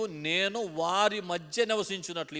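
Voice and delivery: slow, deliberate phrase for the congregation to repeat; slow model phrase. Shown as a demonstration. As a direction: spell it out slowly so they can echo it. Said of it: "ఈ మాట చెప్పండి".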